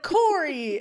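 exasperated outcry. Retold or imitated. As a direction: cry out the name, imitating an exasperated brother. Brother retold scolding the blurter.

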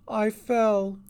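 put-on high little-girl voice, hurt; small, high voice of a tearful child; between sobs. A narrator's reading. Hurt girl tells the sister how it happened, between sobs. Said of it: "she said softly between sobs".

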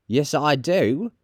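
slow, brazen woman; unashamed charwoman. Acted. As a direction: own up slowly, without shame. Charwoman answers Joe unashamed.

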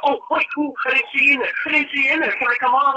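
high mock voice of the rider asking to come on; mocking whiny passenger. Mocking the rider who wants in, in a high silly voice.

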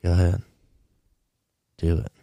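low, unhurried, pretend calm; understated, cool permission. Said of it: "he's all calm, and he's like".

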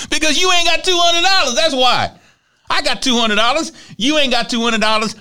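hammed-up dad scolding; dad teasing daughter she has no money; mock lecture.

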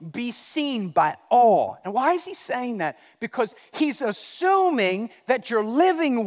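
insistent pulpit delivery; forceful preaching. Real, not acted. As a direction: preach it out, leaning on key words.

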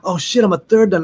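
mock-dismayed outburst; comic dismay. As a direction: act out suddenly realizing the catch. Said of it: "it was happy and sad at the same time".

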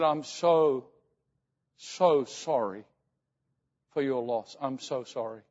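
slow, falling, understated sorrow; sorrowful condolence. Retold or imitated. Retold condolence to grieving mother.

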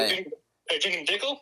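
speakerphone audio; thin voice through a phone line; over the phone. Real, not acted. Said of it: "you're on speakerphone".

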